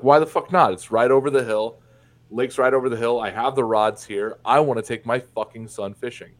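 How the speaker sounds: mildly heated, indignant father; angry retort. Acted. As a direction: push back in a heated argument, retold. Acted parental argument over fishing.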